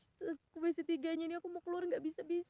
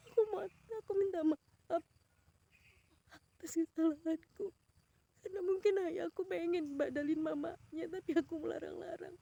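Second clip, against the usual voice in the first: tearful prayer. Retold or imitated. Tearful prayer begging forgiveness.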